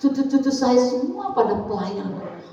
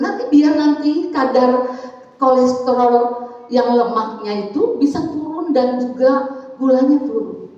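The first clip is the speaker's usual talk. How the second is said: put-on children insisting; 3 semitones higher, 5 dB louder than usual.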